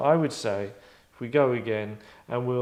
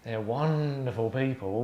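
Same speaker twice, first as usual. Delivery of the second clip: mocking punk; slower than usual. Acted punk mocking the interviewer.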